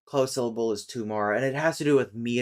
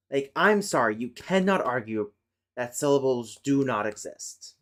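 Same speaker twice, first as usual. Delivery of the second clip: louder, heated and indignant; real exasperation at a claim she finds absurd; exasperated rant; 3 dB louder than usual. Real, not acted. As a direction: tear into the argument, fed up. Ranting against a linguistics claim.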